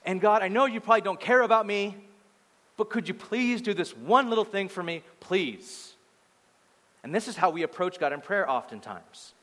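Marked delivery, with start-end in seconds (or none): 0.0-5.9 higher-pitched mock plea, easing off at the end; pleading. Praying person asking an uncaring God, pleading. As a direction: imitate someone meekly begging a favour. Acting out a timid, pleading prayer.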